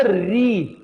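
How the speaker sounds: री said slowly with the tongue kept off the roof of the mouth; teacher demonstrating the syllable री; demo of ri. Shown as a demonstration. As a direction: show how री is spoken. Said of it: "तो री बोलने में".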